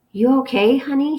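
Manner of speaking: just woken, voice heavy with sleep; groggy. A narrator's reading. Mother half-asleep answering her son, groggy. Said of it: "she said groggily".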